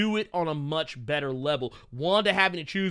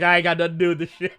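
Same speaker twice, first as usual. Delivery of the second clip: mock denial; 6 dB louder, much faster than usual. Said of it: "He's like".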